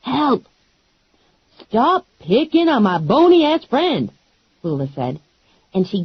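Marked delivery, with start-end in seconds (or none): 0.0-0.5 high, urgent yell; yell for help. Acted. Pinned face down in the mud, yelling for help. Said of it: "I yelled". 1.6-4.1 a lightly voiced, higher, sassy friend; sassy Lula. Lula warning the wrestlers, lightly voiced and sassy. Lula's voice.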